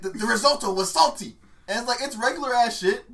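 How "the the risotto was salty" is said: mock British chef complaint, raised pitch; lightly voiced angry British critic; Gordon Ramsay. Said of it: "he has a British accent and he's, like, so angry".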